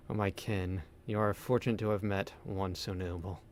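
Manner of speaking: weary spirit voice. Acted. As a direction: speak like a dying guardian spirit. Reads spirit's lines.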